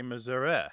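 "Missouri" ending in the E of get or met; Missouri with final eh. Shown as a demonstration. Host to caller, third variant: "Missouri" ending in E as in get. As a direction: say "Missouri" as miz-OO-reh, short E at the end. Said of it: "more like the E in get or met".

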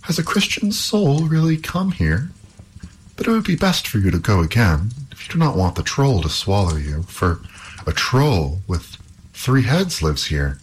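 lightly voiced anxious princess. Princess warns the youth.

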